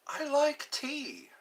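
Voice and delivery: high, slow breathy whisper of the same line. Shown as a demonstration. Repeated as a whisper.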